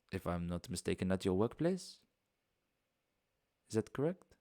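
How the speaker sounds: lightly voiced courteous foreign host, unhurried; a hint of a genteel host saying farewell; polite foreign host. Bastian bidding guests goodbye, lightly voiced.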